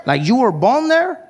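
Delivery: very high astonished squeal; be amazed he's African; laughing mock surprise; shocked disbelief. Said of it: "He's like".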